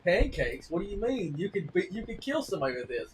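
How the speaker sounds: disbelieving husband poking at the pancakes; lightly voiced husband complaining about the food; mock husband. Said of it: "he goes".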